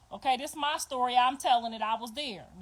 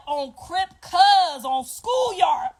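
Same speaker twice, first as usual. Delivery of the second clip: slow, far louder yelled gang chant, much higher; mock gang shout; 4 semitones higher, 8 dB louder, much slower than usual. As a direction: shout it like a birthing war cry. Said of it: "She said".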